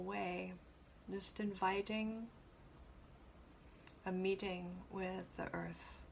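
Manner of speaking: unhurried meditation voice with long pauses; guided meditation. Acted. Teacher guiding listeners to connect with the Earth, calm guided meditation. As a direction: gently lead them inward, leaving space between phrases.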